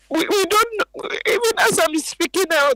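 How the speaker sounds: tearful, struggling to speak; crying. Real, not acted. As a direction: voice breaking into tears. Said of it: "Don't, don't cry".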